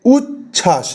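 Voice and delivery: "উচ্ছ্বাস" broken in two with a pause; syllable by syllable. Shown as a demonstration. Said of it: "এটা just উচ্চারণটা ভাবুন". ("উচ্ছ্বাস" দুই দলে ভেঙে, থেমে থেমে)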